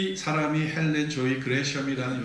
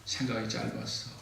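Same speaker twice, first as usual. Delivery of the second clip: sincere apology; 3 semitones lower, 6 dB quieter than usual. Shown as a demonstration. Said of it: "사과하세요".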